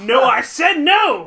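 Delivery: loud, slow, laughing shout. Real, not acted. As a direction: yell it through laughter. Laughing refusal to hear spoilers.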